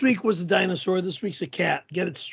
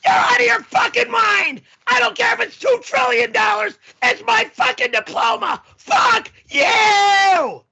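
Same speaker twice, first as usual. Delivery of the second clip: screaming in real rage, much higher and louder; furious shouting; 12 semitones higher, 5 dB louder than usual. Real, not acted. To the host about selling his diploma, furious screaming. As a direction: yell it at the host like he's insane.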